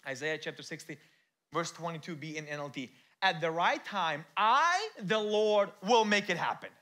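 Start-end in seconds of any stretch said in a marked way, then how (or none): 3.2-6.7 loud high proclamation; God's promise proclaimed loud and high; booming scripture read. Acted. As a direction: thunder out the promise. Reading scripture with force.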